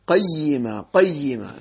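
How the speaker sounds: قيما said "qay-yi-ma"; doubled ya with kasra. Shown as a demonstration. Teacher checking the reading, doubled ya with kasra. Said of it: "تشديد الياء المكسورة".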